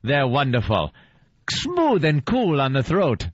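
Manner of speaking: lightly voiced old-time ad pitch; mock cigarette endorsement, stretching out the last phrase; stilted film acting. Co-host acting in a cigarette spot, mock stilted film delivery. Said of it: "they had no idea how to talk on film".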